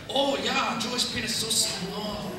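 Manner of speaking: slow, put-on Asian accent for the joke; imitating an Asian accent to land the punchline; mock Asian accent. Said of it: "the Asians even have Jewish penis jokes".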